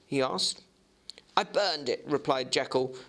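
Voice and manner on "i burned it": higher, insistent doctor; Jekyll's voice. Acted. Jekyll assuring the lawyer, higher insistent voice. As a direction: assert it, pitched up.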